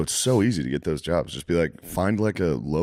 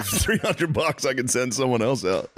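high, slow, laughing quote; laughing mock buyout offer; mock draft dodger; 4 semitones higher, slower than usual. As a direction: toss off the offer through laughter. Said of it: "You should be like".

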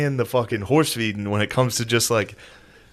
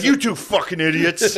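mock-furious scolding, pitched up; mild imitation of an angry outburst; imitated fury; 6 semitones higher than usual. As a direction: scold two pranksters, half amused. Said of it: "He was furious".

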